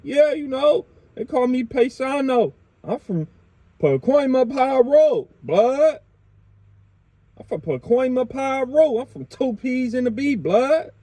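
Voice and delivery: a touch of a cocky gangster repping his block; mock gangster bragging to cops. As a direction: show off your hood to the cops, half-mocking. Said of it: "letting the police know".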